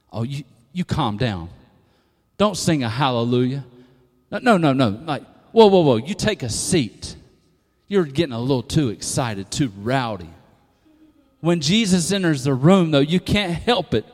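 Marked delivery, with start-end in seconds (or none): 0.1-4.9 hushing, scolding church member; disapproving church people. Acted. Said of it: "Sounds like church people to me". 5.5-10.3 scolding, dropping lower as it goes; disapproving church people. Acted. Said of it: "Sounds like church people to me".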